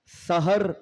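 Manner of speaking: सहर with an open "a" in both syllables; sahar, dawn. Shown as a demonstration. Speaker showing students the word for dawn, clear sahar. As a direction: say सहर as sa-har. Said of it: "सहर का मतलब नई सुबह".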